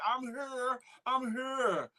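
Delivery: quoting her plainly; just read her words as typed; plain quote. Retold or imitated. Host reading a viewer's greeting, plain quote. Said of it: "she say".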